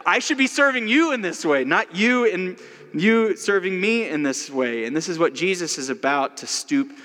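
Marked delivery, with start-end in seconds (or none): 0.1-4.8 much higher, mock-earnest protest; imitating the Queen. Preacher imitating the Queen protesting to his host, mock earnest. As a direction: pretend you are the Queen insisting on serving.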